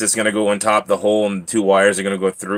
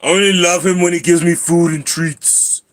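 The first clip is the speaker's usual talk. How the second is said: high, loud put-on cat voice; talking cat voice; 7 semitones higher, 5 dB louder than usual. Owner voicing his cat about treats, high cat voice. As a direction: pipe up high as a food-loving cat.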